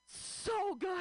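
high, tight squeak of a reply; nervous squeak. Retold or imitated. Flustered woman answering her old crush in a high squeak. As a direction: squeak it out, far too high. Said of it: "I was just like".

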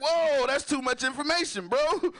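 high-pitched mock alarm; comic shocked protest; alarmed recoil. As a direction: cut in, voice jumping up in disbelief. Retold alarm at friend's story.

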